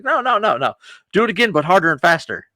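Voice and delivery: high, excited begging; hammed-up eager plea. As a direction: beg to be hit again, squeaky and keen. Punched guy begs for more.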